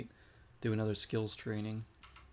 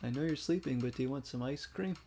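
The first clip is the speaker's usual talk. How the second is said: higher-pitched creepy caller imitation; mock-eerie, coaxing singsong; 4 semitones higher than usual. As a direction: play a creepy ice cream seller at the window. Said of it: "They're, like, outside your window".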